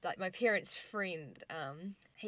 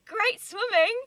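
higher, louder, bright mock praise; imitating the star; 13 semitones higher, 13 dB louder, much slower than usual. Actress compliments the kid's mermaid swim, brightly. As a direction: say it like a kind celebrity. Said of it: "she's like".

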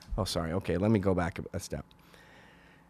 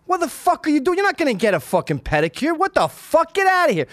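high, loud mock-outraged yelling; angry dad outburst; 4 dB louder than usual. Dad to son about getting a pedicure, high outraged yell. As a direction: berate him like an appalled father.

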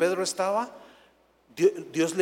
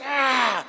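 acted outcry; 6 semitones higher than usual. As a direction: cry out as if tearing your clothes. (grito agudo de protesta)

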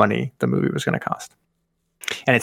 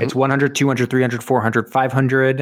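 game show host; 3 semitones higher than usual. Pretend. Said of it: "I am doing a Jeopardy round".

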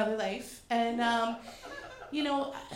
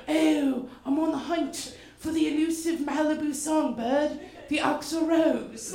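nature documentary narrator. Retold or imitated. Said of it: "National Geographic photographer who was like".

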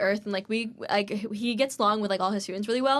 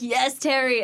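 louder, slightly raised cheer; mock-rowdy shout-out; retold cheer; 4 semitones higher, 6 dB louder, much slower than usual. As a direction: call it out like a playful cheer. Acted cheer to professor at interview.

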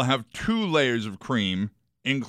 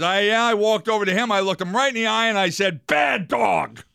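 punchline build; 8 semitones higher, 4 dB louder than usual. Acted. Punchline voiced, rising.

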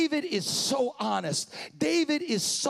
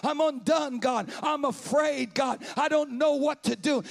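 preaching at full force. Acted. Pastor urging his church to pray, preaching at full force. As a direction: build the congregation up to pour out their hearts.

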